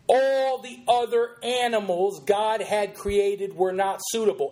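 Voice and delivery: heavy stress on "all the other animals"; emphatic quote. Acted. Host quoting the sermon, stressing "all the other animals". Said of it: "listen to the emphasis on those words".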